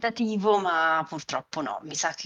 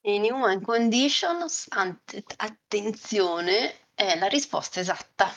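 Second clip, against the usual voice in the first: showy game show host; 4 semitones higher than usual. Acted. Host announces the right answer.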